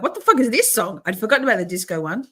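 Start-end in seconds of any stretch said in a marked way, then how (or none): 0.0-1.0 mock-baffled outburst, raised in pitch and volume; retold disbelief. Streamer retelling her reaction to Adam's song, mock disbelief. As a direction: quote your own baffled reaction, higher and louder. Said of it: "I'm like".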